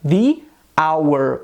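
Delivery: "the hour" said "thee our"; "the hour", long ee and silent H; "the" before silent H. Shown as a demonstration. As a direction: say "the" as "thee", then "hour" without H. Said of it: "combinando com o artigo definido".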